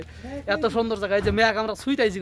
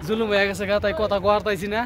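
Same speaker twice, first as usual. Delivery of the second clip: short of breath in thin air; gasping between words; breathless at high altitude. Real, not acted. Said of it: "কথা কওয়া খুব অসুবিধা হয়েছে".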